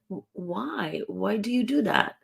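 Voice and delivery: lightly curious, rising why. Shown as a demonstration. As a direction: ask as if you really want to know. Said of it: "using curiosity voice".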